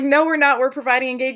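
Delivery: high, loud mock indignation from Chuck; mock protest. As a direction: protest playfully in his name, loud and high. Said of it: "Chuck is like".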